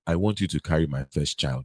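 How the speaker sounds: put-on low African-accented declaration; deep mock African accent. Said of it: "you know what he's gonna say".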